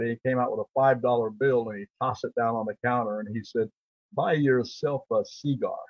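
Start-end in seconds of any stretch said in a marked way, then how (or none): 4.1-5.8 slow, drawling John Wayne cadence; imitating John Wayne tossing a tip; John Wayne impression. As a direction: give it the Duke's slow drawl. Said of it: "that's exactly how he said it".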